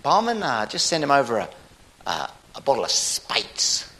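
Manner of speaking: hesitant, casual New Zealand bloke; Kiwi accent. Acted. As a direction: order haltingly in a laid-back Kiwi accent. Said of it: "The Kiwi said".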